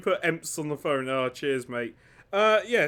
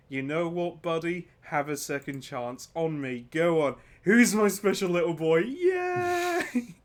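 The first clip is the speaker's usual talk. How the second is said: doting dad. Retold or imitated. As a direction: coo at him like a proud father, then a squeaky yay. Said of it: "So Khorne just goes".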